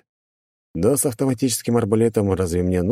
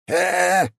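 choked demon croak; 12 semitones higher than usual. Acted. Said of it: "прохрипел демон".

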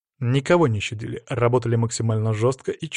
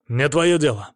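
curt snap; 3 semitones higher, 4 dB louder than usual. Acted. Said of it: "резко оборвал меня боец".

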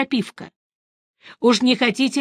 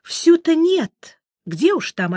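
put-on old woman voice; 8 semitones higher, slower than usual.

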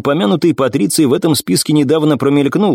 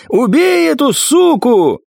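furious yell; 13 semitones higher, slower than usual. Acted. Maimed assassin still screaming.

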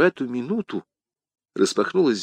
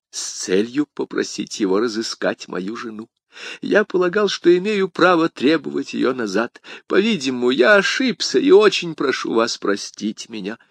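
meek, higher-pitched explanation; apologetic prisoner; 3 semitones higher than usual. Acted. Bonacieux asks the commissar's forgiveness, apologetic. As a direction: beg pardon humbly.

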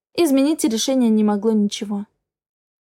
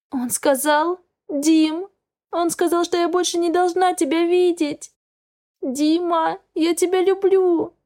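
higher and tearful, slowing at the end; crying; 6 semitones higher than usual. A narrator's reading. Crying girl begging her boyfriend on the phone, higher. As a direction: plead through tears. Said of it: "И я заплакала в голос".

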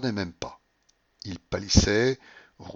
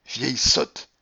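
mildly raised self-reproach; sudden exclamation; 3 semitones higher, 4 dB louder, much slower than usual. A narrator's reading. Babouchka to herself after losing, sudden exclamation. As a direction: burst out briefly, crossly. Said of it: "elle s'écria tout à coup".

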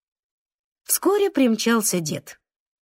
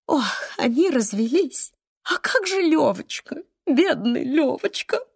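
a lightly voiced old woman, wailing higher; lamenting grandmother; 4 semitones higher than usual. Grandmother grieving over the boy after the divorce, lightly voiced lament.

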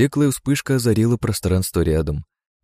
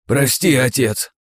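put-on guilty young voices; guilty sons; 6 semitones higher, 3 dB louder, slower than usual. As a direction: apologize sheepishly. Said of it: "виновато проговорили парни".

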